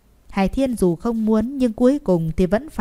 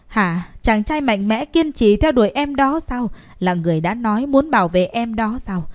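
a passionate, forceful challenge; impassioned outburst. Acted. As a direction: rouse him, voice rising with conviction. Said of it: "hùng hồn nói". (giọng hùng hồn, đầy nhiệt huyết)

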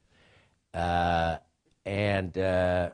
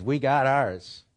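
a slow, louder, higher smug sneer; smug mock quote; 6 semitones higher, 6 dB louder, slower than usual. Mimicking the powerful who say they got theirs, smug and slow. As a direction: sneer it like a man who already got his. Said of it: "So what they're saying is".

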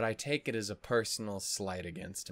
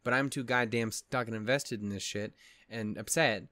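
louder exasperated complaining; frustrated rant; 5 dB louder than usual. Real, not acted. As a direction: vent it with frustration.

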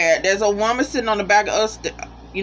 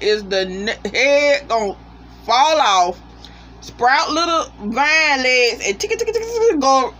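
excited squeal; 5 semitones higher than usual. Retold or imitated. Retelling her own fearful guessing.

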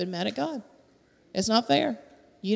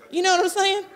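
laughing; 6 semitones higher than usual. Real, not acted.

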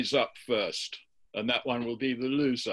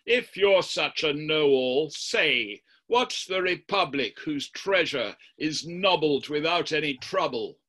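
the devil goads Florentino into a verse duel, lightly voiced; the devil's challenge; 2 semitones higher than usual. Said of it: "And he addresses Florentino like this".

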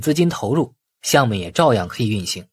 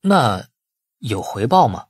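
tentative probing; slower than usual. A narrator's reading. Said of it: "陆明试探道".

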